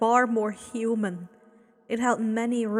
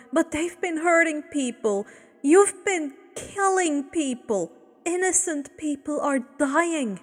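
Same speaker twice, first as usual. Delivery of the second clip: raised, higher anguished protest; cried out; 5 semitones higher, 3 dB louder than usual. Acted. Woman cries her accusation at Abel, raised. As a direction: press the accusation. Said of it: "the woman cried".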